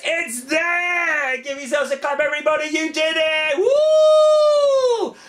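very high, loud whoops; host cheering the vanished cube with the kids. Pretend. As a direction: celebrate like a kids' show host. Final trick success, applause cue.

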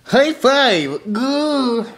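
a high silly monster noise; goofy creature grunt. Retold or imitated. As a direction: grunt it like a cartoon oddball. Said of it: "He's like".

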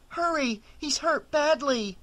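high and frantic; urgent panic. A narrator's reading. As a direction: hurry them, alarmed. Rachel rushes to injured friend.

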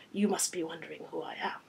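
put-on understated French-accented introduction; polite French-accented vampire; rich French accent. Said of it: "with a rich French accent".

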